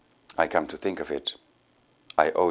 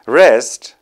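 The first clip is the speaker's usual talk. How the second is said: bright, louder playful question; gaily; 5 semitones higher, 9 dB louder, slower than usual. Acted. Companion brushing off the need to rest, gaily. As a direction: toss it off with glee. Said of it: "asked gaily".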